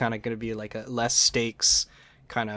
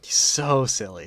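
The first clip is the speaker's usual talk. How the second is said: whispering. Real, not acted. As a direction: whisper it fondly. Fond aside whispered to co-host.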